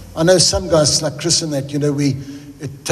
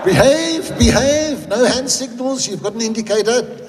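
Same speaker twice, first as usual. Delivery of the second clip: higher, mock-stern self-talk; scolding himself; 6 semitones higher than usual. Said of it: "I say".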